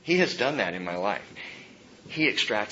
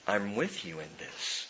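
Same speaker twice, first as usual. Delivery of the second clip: much softer, hushed reassurance; God's gentle voice; 4 semitones lower, 11 dB quieter than usual. Acted. Pastor voicing God to the weary, softly hushed. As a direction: lower it to a soft promise. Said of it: "That's where he says".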